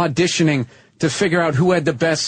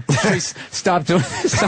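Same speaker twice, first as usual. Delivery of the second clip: embarrassed pleading; much slower than usual. Retold or imitated.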